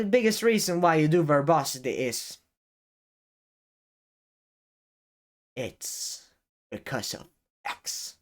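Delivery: long pause, then "it's because of X" almost whispered; dramatic pause. Shown as a demonstration. Showing viewers how a pause draws focus. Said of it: "if I right now take a pause".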